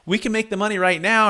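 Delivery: retold spousal protest, voice pitched well up; mock-incredulous, high and insistent. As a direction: imitate a disbelieving wife, high-pitched. Wife disputes husband in retold argument.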